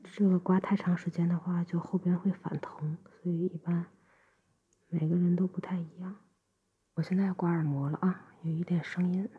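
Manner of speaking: gentle ear-cleaning whisper. Acted.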